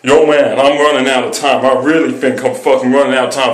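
put-on American street slang; urgent American-accented patter. Shown as a demonstration. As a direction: rattle it off as an American dude. Next American accent in the challenge.

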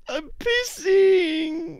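high, slow frightened wail; a scared kid crying over his accident; whimpering fright. Acted. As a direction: blubber it out in terror. Scared character wets himself.

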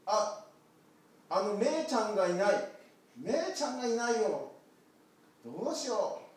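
high, loud worried little lamb voice; a child-like lamb crying out for help; lamb calling out. Acted. Lost lamb worrying aloud, high and loud.

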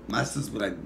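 usual speaking voice

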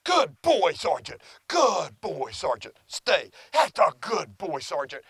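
high, affectionate praise for the dog; loving reward voice. Shown as a demonstration. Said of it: "Same vocalization".

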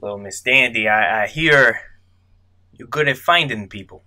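lightly voiced tough guy; a hint of a mob heavy; gangster voice. Georgie pressing the nervous detective, mild mobster voice. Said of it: "His voice is shifting right before our eyes".

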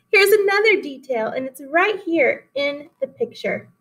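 put-on lively read-aloud for children; story reading. A narrator's reading. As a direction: read the fable to the class, animated. Teacher reads fable aloud.

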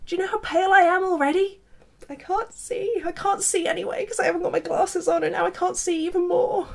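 exasperated complaint. Real, not acted. Complaining to the sun.

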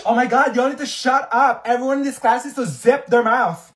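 loud, high shout at the class; yelling. Acted. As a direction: shout over a noisy room.

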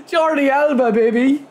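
high cheering of the name; excited cheer. Real, not acted. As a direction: hype up the scorer. Goal celebration.

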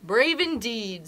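slow, lightly voiced lion. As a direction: drawl it out as an unimpressed lion. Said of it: "said Lion".

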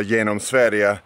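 "genom Sverige" said in Swedish, yeh-nom sveh-ree-eh; Swedish phrase. Shown as a demonstration. Comparing his ride to the book, phrase said in Swedish. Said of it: "my own wonderful ride through Sweden".

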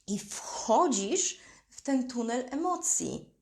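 slow, hushed whisper. Acted. Coach whispering to her listener, slow and hushed. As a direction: breathe the line out as a secret.

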